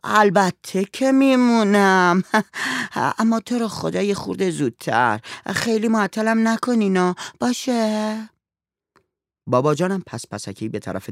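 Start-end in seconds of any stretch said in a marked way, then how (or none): 0.0-8.3 put-on high, slow pleading girl's voice. A narrator's reading. Girl urges the father to come back soon, high and drawn out. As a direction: beg him to hurry back, drawn out.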